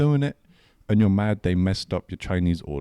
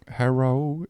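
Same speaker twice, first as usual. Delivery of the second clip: put-on caricatured Chinese accent, slightly raised pitch; mock Chinese accent; 4 semitones higher than usual. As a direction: imitate someone putting on a Chinese accent. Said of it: "accent and you're like".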